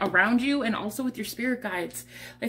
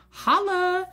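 exuberant holla; 10 semitones higher than usual. Real, not acted. Exuberant exclamation after reading.

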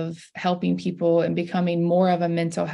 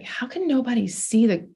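exasperated inner thought. Retold or imitated. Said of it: "I'm like".

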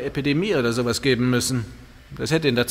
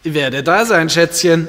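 calling out; 4 semitones higher, 8 dB louder, slower than usual. Acted. Ruft flirtend hinterher.

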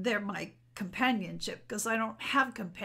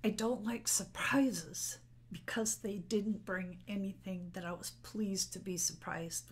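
tearful whisper; 5 dB quieter than usual. Real, not acted. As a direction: push the words out in a whisper through tears. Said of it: "sorry, I'm getting emotional".

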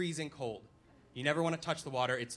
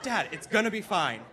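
exasperated shout; 2 semitones higher, 5 dB louder than usual. Retold or imitated. Son shouting back at dad.

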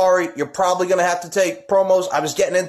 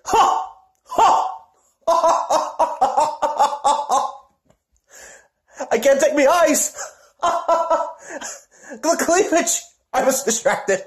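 high cackling laughter breaking up the words; can't stop laughing; laughing fit; 10 semitones higher than usual. Real, not acted. Wrestler cracking up mid-promo, laughing hard.

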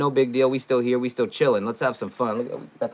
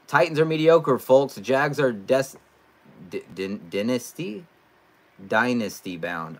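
mocking reading; 2 semitones higher than usual. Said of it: "negative ass Tyrone".

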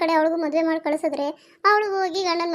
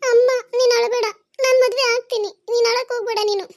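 higher, louder begging to stop crying; urgent pleading; 5 semitones higher, 4 dB louder than usual. Acted. Daughter urgently begging her mother not to cry, higher and louder.

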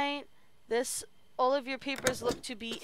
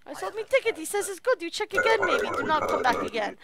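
applicant voice; 5 semitones higher than usual. Acted. Voicing applicant in broken English.

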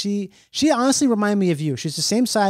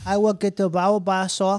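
light imitation of a South African accent; childlike South African accent. Guest joins in mimicking the woman, childlike South African accent. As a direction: copy a little-kid South African accent. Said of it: "like Charlie bit my finger".

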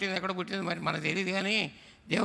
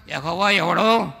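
proud sneer; 2 semitones lower, 8 dB louder, slower than usual. Retold or imitated. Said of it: "ఏమంటున్నాడు?".

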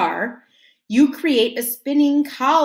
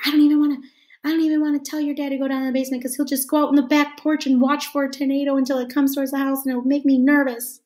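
imitating mom; 4 semitones higher, much faster than usual. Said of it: "She's like".

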